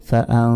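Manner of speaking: ফা, আউ with the end held as a nasal hum; আউ ending in a long hidden ng; ghunna. Shown as a demonstration. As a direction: draw আউ out through the nose. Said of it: "এখানে গুন্না হবে".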